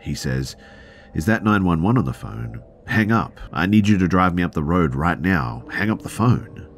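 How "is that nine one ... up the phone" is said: raised, urgent demand; panicked demand. Retold or imitated. Injured man to driver on phone, panicked demand. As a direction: sound panicked, pushing higher and louder. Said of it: "fully panicked and flat".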